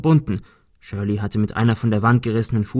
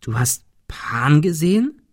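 whisper; 4 semitones higher, slower than usual. Acted. Hushed question at sickbed.

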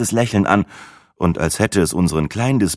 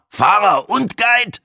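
slow, higher, loud mock shout; mock disbelief; 4 dB louder, slower than usual. Breitling teasing the guide, mock astonished shout. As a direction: stretch it out in fake astonishment.

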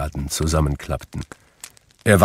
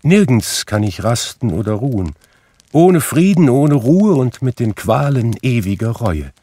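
raised, anguished spectral lament; declaimed ghostly torment, higher and louder; 5 semitones higher, 5 dB louder than usual. A narrator's reading. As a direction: wail the words in endless remorse. Narrator voices Marley's ghost.

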